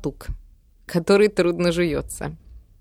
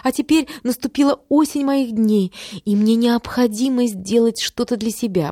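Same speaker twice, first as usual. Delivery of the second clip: higher, fast announcer-like recital; declaiming; 6 semitones higher than usual. A narrator's reading. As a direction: recite it like a broadcast script. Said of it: "продекламировала мама, как будто читала дикторский текст".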